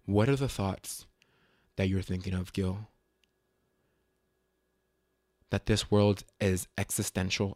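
low, soft musing to oneself; serious inner voice. Retold or imitated. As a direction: imitate your own solemn inner voice. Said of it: "that voice, it got serious".

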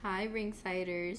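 slow, hoarse sick greeting. Real, not acted. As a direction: talk through a sore throat. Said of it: "Sorry, I'm sick".

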